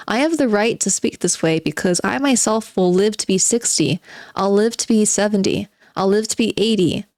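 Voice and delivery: reading a novel aloud with a touch of theatre; dramatic reading. Acted. Streamer reading the novel to chat, dramatic reading. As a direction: give the underground man's monologue its bite.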